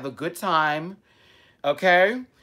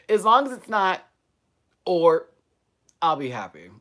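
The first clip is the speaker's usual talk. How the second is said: bigger second take; 3 semitones higher, 5 dB louder than usual. Shown as a demonstration. Doing the retake louder for the live chat. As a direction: say it again with more punch for the viewers. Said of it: "One more time".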